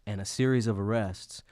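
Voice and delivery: measured commercial announcer delivery; mock ad read. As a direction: read it as an earnest sponsor spot.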